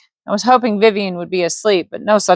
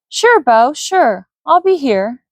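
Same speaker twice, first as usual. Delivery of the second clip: Vivian's reply; 7 semitones higher, slower than usual. Acted. Vivian reassures Bo.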